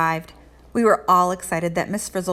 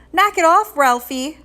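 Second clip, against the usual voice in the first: sharp high scold, much louder; 9 semitones higher, 6 dB louder than usual. Acted. Keisha scolding Ralphie for his prank, high sharp scold. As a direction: snap at him to cut it out. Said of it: "Keisha scolded him".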